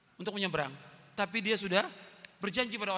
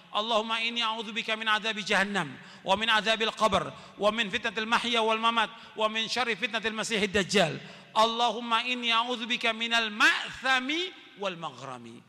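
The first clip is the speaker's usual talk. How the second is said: prayer recitation. Acted.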